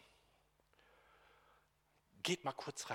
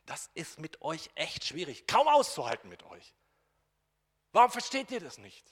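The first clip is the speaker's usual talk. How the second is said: exasperated outburst, rising much louder and higher; frustrated Jesus; 5 semitones higher, 13 dB louder than usual. Acted. Jesus loses patience with his disciples, exasperated loud outburst. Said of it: "ein bisschen genervt, enttäuscht, frustriert".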